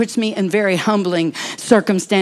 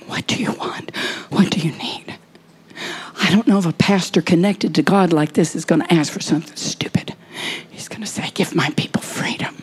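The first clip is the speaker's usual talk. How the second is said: hushed intimate whisper. Acted. Whispered prayer talk.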